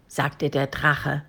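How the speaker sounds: ordinary delivery, nothing marked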